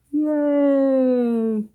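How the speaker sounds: light happy cheer; playful yay. Acted. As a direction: gasp then cheerful little cheer. Celebrating the birthday reveal.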